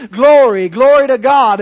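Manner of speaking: glory called out loud, falling at the end; shouted praise. Retold or imitated. Preacher imitating a shout of praise from the pews, loud. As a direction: shout it like a moved churchgoer. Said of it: "You might hear someone say".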